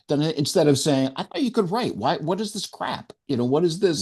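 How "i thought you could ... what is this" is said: mean editor. Retold or imitated. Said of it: "She just said it in a mean way".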